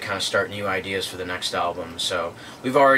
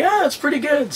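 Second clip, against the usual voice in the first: imitating British guy; 5 dB louder than usual. Quoting British guy's reply.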